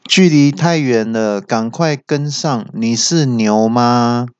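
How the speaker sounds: mock car navigation voice; GPS voice. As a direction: deliver it like a deadpan navigation alert. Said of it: "导航有时就会提醒说".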